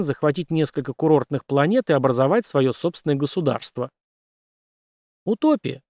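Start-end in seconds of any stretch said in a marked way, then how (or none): 5.2-5.8 high, scoffing dismissal; contemptuous. A narrator's reading. Andrew scoffing at the pirates' plan, contemptuous. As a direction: dismiss it with scorn. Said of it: "презрительно хмыкнул Эндрю".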